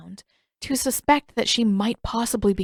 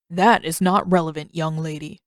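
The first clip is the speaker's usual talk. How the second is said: stern rebuke; 3 semitones lower, 3 dB louder than usual. Acted. Stern elder rebukes girl.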